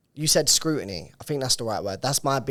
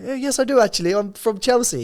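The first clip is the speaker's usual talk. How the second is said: exaggerated posh Queen's English, much higher and louder; mock Queen's English posh; 11 semitones higher, 7 dB louder than usual. Salesman insisting to a rude caller, hammed-up posh Queen's English. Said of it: "tried to teach us Queen's English posh".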